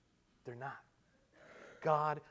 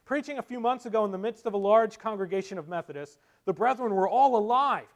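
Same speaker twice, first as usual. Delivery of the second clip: raised, lively storytelling; animated story reading; 7 semitones higher, 10 dB louder than usual. Acted. Preacher reads Spurgeon's story to congregation, animated and raised. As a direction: read it out like a preacher telling a tale.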